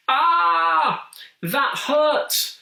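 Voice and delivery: high, loud pained wail. A narrator's reading. Monster wailing at a tongue full of spikes. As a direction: let out a howl of pain as the spikes hit. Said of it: "the monster wailed".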